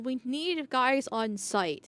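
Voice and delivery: lightly mimicked bystander, drawn out slowly; slow mocking quote. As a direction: spell each word slowly, mocking him. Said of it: "is saying".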